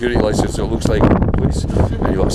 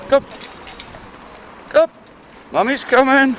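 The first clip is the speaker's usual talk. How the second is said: sing-song calling out; 14 semitones higher than usual. Real, not acted. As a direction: call out brightly to reassure her. Calling to her dog.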